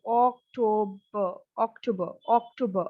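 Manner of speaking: October ending in 'buh' with no R; German October. Shown as a demonstration. Teacher models German October, final R left silent. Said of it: "we have October".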